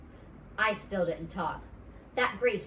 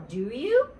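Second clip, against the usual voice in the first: insistent; 5 semitones higher, 7 dB louder than usual. Acted. Pressing for an answer.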